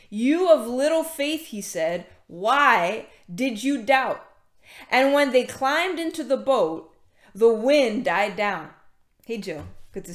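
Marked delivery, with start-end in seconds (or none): 0.1-4.2 slow, drawn-out reading of a reproach; measured scripture reading. A narrator's reading. Preacher reading Jesus' words to the congregation, measured. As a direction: read it out slowly, lingering on the question.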